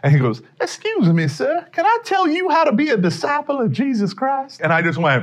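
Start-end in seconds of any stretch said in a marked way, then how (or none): 0.6-4.6 put-on, very high-pitched Mississippi riverboat accent. Retelling a stranger's approach at McDonald's: imitating a Mississippi riverboat accent. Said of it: "Sounds like the guy just got off the Mississippi riverboat".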